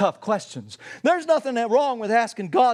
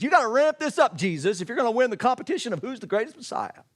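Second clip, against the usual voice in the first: mocking Pharisees; 2 semitones higher than usual. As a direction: egg him on like a heckler. Pharisees taunt Jesus again.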